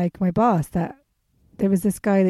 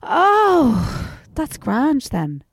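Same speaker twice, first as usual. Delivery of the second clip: high "Oh", then a slow, awkward "that's grand then"; awkward relief; 5 semitones higher, much slower than usual. Retold or imitated. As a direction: play it off awkwardly with a strained, drawn-out reply. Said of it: "the awkward thing... of going".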